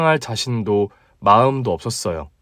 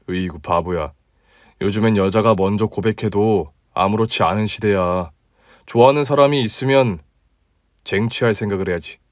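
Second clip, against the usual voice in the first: a touch lower, relaxed guy talking to a friend; easygoing male colleague, slightly deeper; 4 semitones lower than usual. Acted. Male lead replying. (조금 낮고 편안한 남자 목소리)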